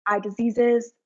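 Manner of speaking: nervous stumbling speech; halting, tripping over words; stuttering. Real, not acted. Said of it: "I'm stuttering".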